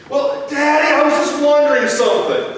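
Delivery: put-on a wide-awake kid with a question; curious child. Son talks to dad at 5 AM.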